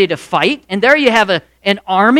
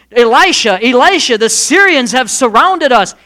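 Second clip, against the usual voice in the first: higher, louder alarmed call to his master; panicked call; 4 semitones higher, 5 dB louder than usual. Acted. Servant bursting in to warn Elisha, panicked.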